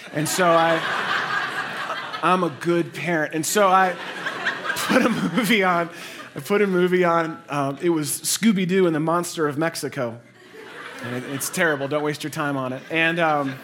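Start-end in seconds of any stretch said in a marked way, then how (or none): 0.1-10.2 laughing through the words; chuckling at his own parenting. Real, not acted. Pastor telling the church about the movie, laughing. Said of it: "laughing at himself".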